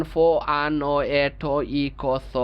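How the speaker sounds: "ফ, আ, ন, এ, ঠ, ই, ক, স" recited sound after sound in one string; "ফ, আ, ন, এ, ঠ, ই, ক, স" as an unblended list of sounds; wrong run-together spelling. Shown as a demonstration. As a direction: reel off "ফ, আ, ন, এ, ঠ, ই, ক, স" without joining syllables. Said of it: "এইভাবে উচ্চারণ করতে গেলেই আপনার ভুল হবে".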